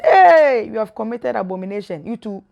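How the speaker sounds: mock-stern God casting someone out; God rebuking. God to Adam and Eve after their sin, stern rebuke. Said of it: "And God said".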